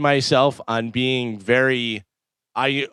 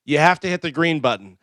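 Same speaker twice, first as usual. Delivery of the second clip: mildly exasperated clerk instruction; fed-up clerk. Retold or imitated. Post office clerk instructs a customer, mildly fed up. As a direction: imitate a weary clerk spelling it out. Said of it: "he is so fed up with everyone".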